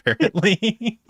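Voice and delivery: high squeaky helium filter; chipmunk voice. Real, not acted. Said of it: "started becoming a chipmunk voice".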